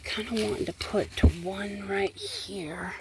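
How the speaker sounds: unvoiced whisper to herself. Real, not acted. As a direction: murmur it under your breath. Repeats the words under her breath.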